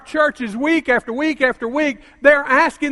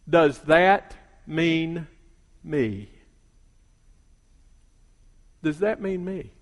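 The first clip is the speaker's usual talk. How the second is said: soft, slow, lower pleading; hushed pleading question; 7 semitones lower, 6 dB quieter, slower than usual. Retold or imitated. Retold member asking the preacher, soft and pleading. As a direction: ask it quietly, almost broken. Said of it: "I want you to listen to it".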